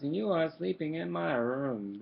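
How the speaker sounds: mild spooky ghost, slow and loud; quavering ghost. Acted. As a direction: draw the words out like a spooky ghost. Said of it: "it said in quavering voice".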